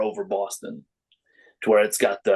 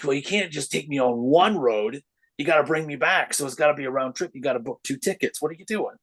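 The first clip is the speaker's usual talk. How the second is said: higher, teasing round-trip logic; mock insistence; 5 semitones higher than usual. Telling the host a drink must be a round trip, teasing and higher. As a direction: argue it like it's obvious, playfully.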